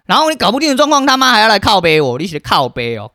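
loud, high-pitched swearing outburst; furious rant. Real, not acted. Venting about fetching goods for an ungrateful friend, loud fury. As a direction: blast it out, fully enraged.

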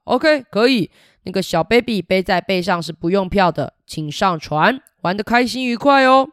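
a hint of a jolly old sea captain; walrus captain voice. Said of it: "海象船长就说".

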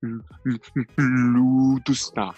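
put-on slow, drawn-out aristocratic accent; imitating a YouTuber's noble accent; 老高's aristocratic accent. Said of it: "我在学老高讲话".

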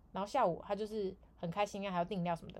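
usual speaking voice

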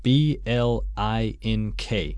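letter by letter, slowly; spelling it out. Shown as a demonstration. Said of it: "Duncan帮我拼一下好了".

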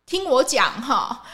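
lightly imitating an annoyed senior telling off a trainee; unhappy senior cutting the trainee off, mildly imitated; irritated senior scolding. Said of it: "他就不开心了".

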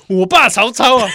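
mock Beijing Mandarin pride; beijing accent. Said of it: "他不会讲北京话".

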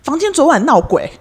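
loud, high, laughing retold guest; guest's bold claim. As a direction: boldly insist the room was haunted. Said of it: "他说".

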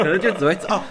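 laughing. Real, not acted. Laughs while answering.

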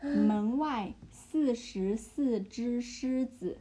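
门外四十四只狮子 at half speed. Shown as a demonstration.

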